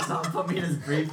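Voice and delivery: loud, high, words through laughter; real giggling under the words; laughing. Real, not acted. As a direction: add to the joke while cracking up. Laughing through a shared joke.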